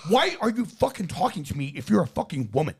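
a light mock of a macho lecture; lightly voiced arrogant bragger; imitating the influencer. Mocking how the influencer talks to women, lightly voiced. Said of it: "That's, that's how he talks".

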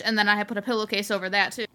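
chewing while talking; mouth full. Real, not acted. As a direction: talk through a mouthful of food. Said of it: "I'm so sorry if you can hear me chewing".

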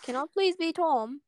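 lightly attempted British accent; put-on accent. Friend asking to play Tom, wandering British accent. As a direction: plead in a shaky attempt at British. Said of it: "what is this accent?".

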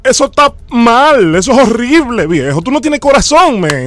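mock-outraged caller scolding a grave robber; indignant scolding. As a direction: scold him like he's heartless. Caller scolds prank victim.

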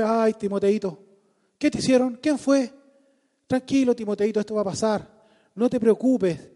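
coddling, soothing mock tone; baby him gently and sweetly; mimo tierno. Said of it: "¿Le dijo así? No". (tono mimoso y consentidor)

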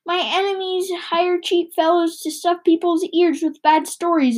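high, petulant complaining voice; high whiny Batu voice. Acted. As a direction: whine like a vain ruler.

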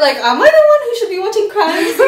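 high and loud, laughing through it; laughing at her own dark jokes; laughing question. Real, not acted. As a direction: ask it while cracking up. Laughing about dark humor.

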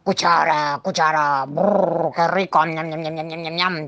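a hint of a delighted monster munching. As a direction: savour each bite. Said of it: "decía el monstruo encantado".

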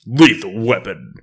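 slow, loud announcer read; movie trailer voice. Acted. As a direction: boom it out like a trailer. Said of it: "do it with the movie voice as well".

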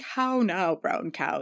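clipped, careful actor diction; mock stage-trained enunciation; prim precise elocution. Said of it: "I'm pretending to be an actor".

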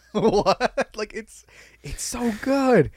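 high, laughing What and so good; laughing disbelief. Real, not acted. Fan laughing over a favourite sketch, high and delighted. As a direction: crack up in delight.

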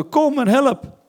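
high, loud imitated cry for help; retold shout. Interpreter echoes the wife's call for help, imitated shout. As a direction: call out like the wife, pitched right up. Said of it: "de vrouw die schreeuwde".

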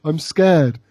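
mock unconvincing fear; imitating bad acting of fear; least scared voice. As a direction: claim to be scared without sounding it. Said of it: "in the least scared voice ever".

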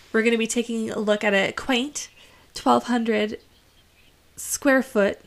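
gushing real estate agent pitch; realtor voice. Acted. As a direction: sell the house like a cheerful realtor. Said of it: "I'm gonna put on my realtor impersonation".

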